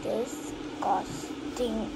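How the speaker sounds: slow whispered disgust. Pretend. Doll judging something gross.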